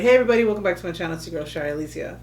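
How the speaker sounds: YouTube intro. Shown as a demonstration. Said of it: "It's like".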